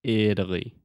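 "Italy" with a flapped T; model pronunciation. Shown as a demonstration. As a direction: say "Italy" clearly for a learner to copy. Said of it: "One more time".

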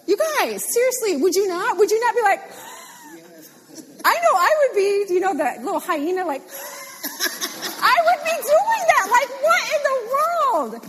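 very high, loud hyena-like giggling; hyena laughter. Pretend. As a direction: cackle giddily in amazement. Imitating hyena laugh, giddy amazement.

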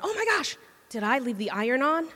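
high mock gasp of alarm, then the worried question; sudden alarm. Driver on the highway suddenly remembers the iron, high mock alarm. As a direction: jolt up in pitch as if it just hit you.

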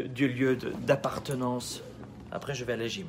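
ordinary talk

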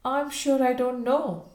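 a touch of rue; rueful. A narrator's reading. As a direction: answer a little sheepishly, with regret. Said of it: "rather ruefully given".

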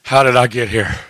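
a hushed giggly how did I get here; awed laughing wonder. Real, not acted. Lower laughing marvel at grace.

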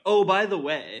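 casual remark through a laugh; laughing aside. Retold or imitated. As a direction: toss it off, half laughing. Crash's imagined aside.

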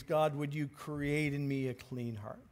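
David's prayer, voiced softly; hushed prayer. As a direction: pray it quietly and humbly. Voices David praying to God.

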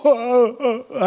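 high mock sobbing "oh"; re-enacted crying. Preacher retelling hearing his late dad in himself, imitated crying. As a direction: wail as if laughter turned to tears. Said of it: "I started crying".

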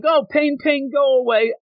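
high sing-song comfort for a scraped knee; soothing a child. Retold or imitated. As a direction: coo it like calming a little kid. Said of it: "And they're like".

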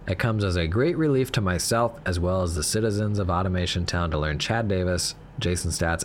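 crisp radio news read; news report. Acted. News report read over music.

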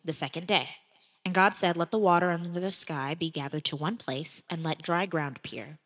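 measured Bible reading, God's words set apart; scripture reading. Acted. Podcast host reading Genesis to listeners, measured scripture voice. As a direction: read it like a steady reading at church. Reads Genesis chapter one.

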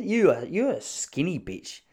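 lightly imitating the blokey uncle; teasing uncle. Mimicking his uncle teasing him about getting skinny. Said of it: "he said".

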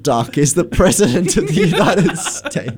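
laughing mock announcement; laughing mockery. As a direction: tease with a giggle breaking through. Mock announcement teasing a silly mix-up.

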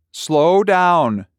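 put-on calls out loud and high after the boy; calling out to a son running off. A narrator's reading. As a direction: shout it after a runaway kid. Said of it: "Junior called after".

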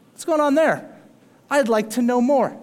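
eager curiosity. Retold or imitated. Preacher voicing a curious world drawn to the church, eager. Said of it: "the response that the church often gets".

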